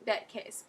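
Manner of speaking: "That cat" said as "thet ket"; Australian A. Shown as a demonstration. Tutor repeating how Australians speak, eh for A. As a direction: eh vowels in "That cat". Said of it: "It's how they speak".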